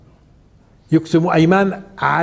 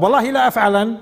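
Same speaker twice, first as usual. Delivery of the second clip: solemn oath; 5 semitones higher than usual. Shown as a demonstration. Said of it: "طب".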